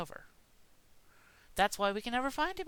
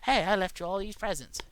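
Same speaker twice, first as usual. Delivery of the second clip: a little louder, hearty mock Santa call; mock Santa greeting; 5 dB louder than usual. Santa retaking his line to kids, a bit louder and hearty. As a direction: redo the line as Santa, with more punch. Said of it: "get rid of that part".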